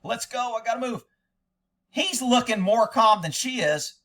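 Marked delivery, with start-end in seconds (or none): 0.0-1.0 mock hurried voice. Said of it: "Watch how much of a hurry she's in".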